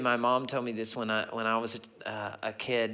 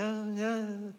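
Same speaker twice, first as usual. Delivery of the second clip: tag; 10 semitones higher, 4 dB quieter than usual. Retold or imitated. Feigned agreement, at a loss for words.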